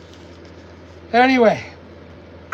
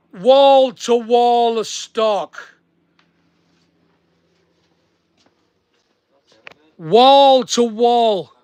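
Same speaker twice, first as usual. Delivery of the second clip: proud proclaiming; much slower than usual. Real, not acted. Showing the viewer his warehouse stock, slow proud proclamation. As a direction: savour every word like a showman unveiling treasure.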